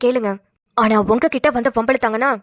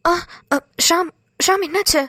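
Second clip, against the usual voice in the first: higher-pitched, worried questioning; alarmed concern; 5 semitones higher than usual. Acted. Woman asking Ram why he is crying, alarmed concern. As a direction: check on someone who is suddenly upset. Sees him break into tears.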